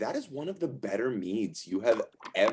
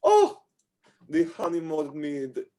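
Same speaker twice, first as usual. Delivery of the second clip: delighted tavern hostess. Acted. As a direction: gush over the drink as a proud innkeeper. Innkeeper delighted at guest's choice.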